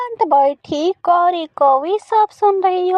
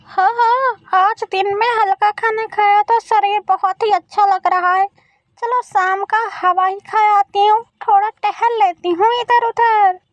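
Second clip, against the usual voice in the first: put-on pleased old crow, lightly raised pitch; contented mother-in-law; 3 semitones higher than usual. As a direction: stretch out like a satisfied old lady. (संतुष्ट सास का हल्का स्वर)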